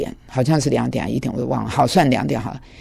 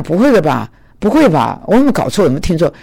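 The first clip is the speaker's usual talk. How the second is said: stunned disbelief; 2 semitones higher, 4 dB louder, faster than usual. Retold or imitated. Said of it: "我又愣了一下".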